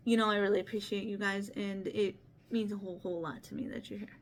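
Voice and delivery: real choked-up thanks, fading away; emotional. Real, not acted. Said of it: "I'm very emotional".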